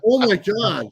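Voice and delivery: high, loud mock gasp of disbelief; awed oh my God. Bob seeing his idol, imitated high loud shock. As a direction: play the starstruck fan, overwhelmed.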